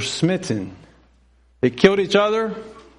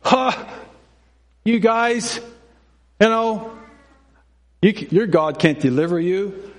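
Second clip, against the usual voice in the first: mocking giant; 4 semitones higher than usual. Goliath mocking Israelites.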